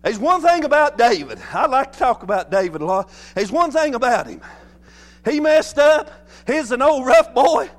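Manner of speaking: impassioned pulpit storytelling. Real, not acted.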